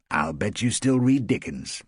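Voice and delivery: put-on an older man's gentle tease; a hint of a wry older writer; lightly voiced Hugh. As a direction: tease her fondly. Hugh teasing Rosemary.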